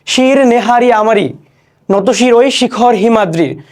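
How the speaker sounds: slow, stately verse reading; slow declaimed poetry; poem recitation. Shown as a demonstration. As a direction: draw the line out with pride.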